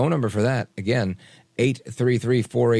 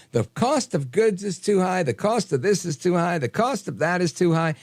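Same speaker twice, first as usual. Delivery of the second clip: mimicked complaint; 5 semitones higher than usual. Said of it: "She keeps coming out saying".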